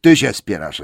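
loud accusing troll voice. Acted. Bert loudly blames William for arguing. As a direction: throw the blame back hard. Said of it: "rzekł Bert".

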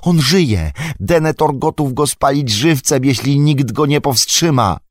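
an anxious hobbit insisting; urgent Pippin. Acted. Pippin urging Gandalf that Faramir will burn, high and urgent.

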